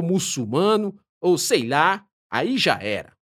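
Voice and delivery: high, lively explaining voice; a strange guide laying out the rules; otherworldly guide. Acted.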